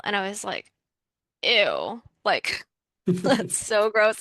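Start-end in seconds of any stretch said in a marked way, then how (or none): 1.4-4.2 slow, laughing mock disgust; grossed out. Retelling her reply to the stranger, laughing mock disgust. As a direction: recoil with a laugh, dragging it out.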